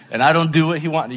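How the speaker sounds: laughing through a quick confession; quick, giggly admission. Real, not acted. Joking about being God's toddler.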